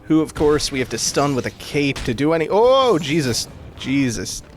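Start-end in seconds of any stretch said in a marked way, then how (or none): 2.5-4.4 startled. Real, not acted. Startled by enemy attack.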